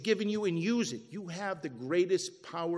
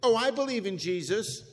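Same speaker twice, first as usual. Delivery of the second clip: mock complacent Christian; 3 semitones higher, 5 dB louder than usual. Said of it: "like many Christians do".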